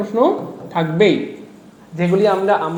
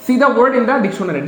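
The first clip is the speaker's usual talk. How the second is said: slow careful reading; 3 semitones higher, slower than usual. Shown as a demonstration. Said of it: "see শব্দটা ব্যবহৃত হয় না".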